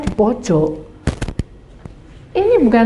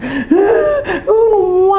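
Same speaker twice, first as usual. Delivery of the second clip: crying gasp; 9 semitones higher, 3 dB louder than usual. Retold or imitated. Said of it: "Dia nangis".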